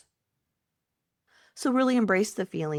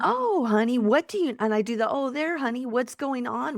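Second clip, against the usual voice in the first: put-on higher, tender coaxing to a child; mothering self-talk; 4 semitones higher than usual. Coach shows how to mother yourself, gently. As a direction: coax yourself like a loving mother. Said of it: "mothering of yourself".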